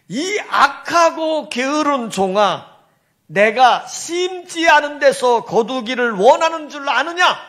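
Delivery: scolding a lazy servant, slowly; angry rebuke. Retold or imitated. Master rebukes the lazy servant, a stern slow scolding. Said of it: "화를 내면서".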